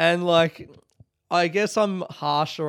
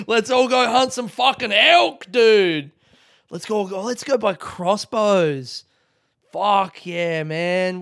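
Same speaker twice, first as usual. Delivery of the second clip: loud, higher, laughing hype bro; laughing mock bro; 5 semitones higher, 6 dB louder, slower than usual. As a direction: ham up a gun-loving bro through laughter. Mocking a hunting bro, laughing.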